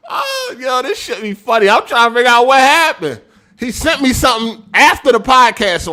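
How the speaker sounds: giggling mid-sentence at the memory; laughing through words. Real, not acted. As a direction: barely hold it together while speaking. Laughing while telling story.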